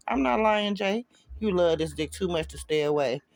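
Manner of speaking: high, smug taunt. Acted. Ex taunts the boyfriend on the phone, smug and high. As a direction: gloat over the line. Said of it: "her voice smug".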